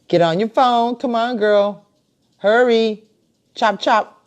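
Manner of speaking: cheerfully pushing a friend to hurry up; laughing urging. Real, not acted. Host laughing at her friend to join the stream, laughing hurry-up.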